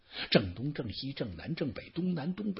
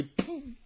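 spitting blood; 10 semitones higher, 9 dB quieter than usual. Acted. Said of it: "一口鲜血喷出来".

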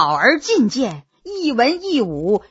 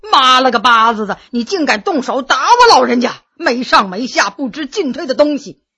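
coarse cursing. Acted. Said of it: "他突然放了粗".

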